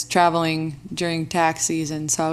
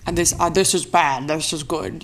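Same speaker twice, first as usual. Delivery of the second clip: put-on old-timey gangster voice; 3 semitones lower than usual. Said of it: "old timey gangster voice there".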